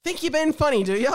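loud, high gruff conductor; train conductor calling. Acted. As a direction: bark it like a grumpy train guard. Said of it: "sound like the train conductor guy".

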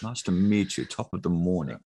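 lightly mocked proper English greeting; prim English accent. Shown as a demonstration. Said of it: "doing an English accent".

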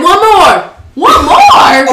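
loud, high, half-laughing hammed-up nurse chant; mock urging. Nurses urging her during labor, mocked loudly with a laugh. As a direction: bark it like pushy nurses, cracking up.

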